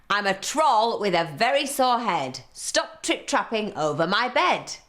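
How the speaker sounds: a sore-headed troll growling his rhyme; grumpy troll. Acted. Troll threatening the little goat, grumpy and loud.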